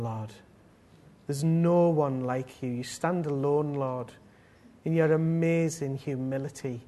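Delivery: earnest spoken prayer with long pauses; unhurried devotional praying; heartfelt prayer. Real, not acted. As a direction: address God reverently, phrase by phrase. Leads the congregation in prayer.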